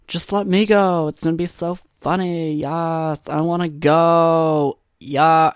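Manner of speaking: high, exaggerated pleading girlfriend; mock girlfriend voice. Girlfriend begs to come watch stand-up, mock eager voice. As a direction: put on an eager, drawn-out girlfriend impression. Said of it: "She doesn't talk like that".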